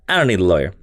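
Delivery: low, deadpan villain voice; Purple Man. Acted. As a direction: turn down help in a dropped, unmoved tone. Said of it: "I love your Purple Man voice".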